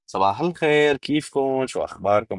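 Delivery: Damascus Arabic greeting. Shown as a demonstration. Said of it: "yung Damascus".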